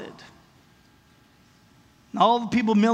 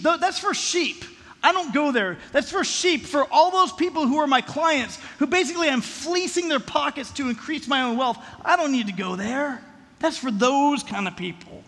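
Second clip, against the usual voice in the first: dismissive snob; 4 semitones higher than usual. Pretend. Arrogant rich person voiced.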